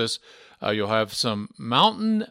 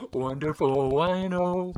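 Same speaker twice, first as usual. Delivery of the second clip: radio DJ voice; slower than usual. Retold or imitated. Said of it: "Thank you, George Carlin".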